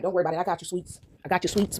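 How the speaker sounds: low, soft comforting quote; softly voiced divine reassurance; acted reassurance. Voices God reassuring her.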